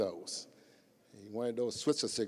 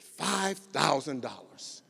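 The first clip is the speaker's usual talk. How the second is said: grand announcement; 4 semitones higher, much slower than usual. Retold or imitated. Skip announcing the final price.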